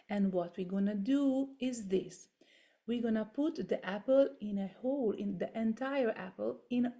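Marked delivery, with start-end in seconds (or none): 0.1-2.3 hushed whisper. Real, not acted. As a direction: whisper it to the class. Unvoiced aside.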